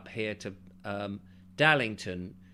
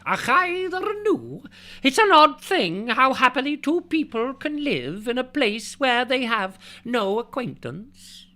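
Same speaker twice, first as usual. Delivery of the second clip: much higher, louder hammed-up Scottish accent; 14 semitones higher, 8 dB louder than usual. Shown as a demonstration. Redoing Stevenson's quote for viewers, hammed-up Scottish accent. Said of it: "I should have read that with a Scottish accent".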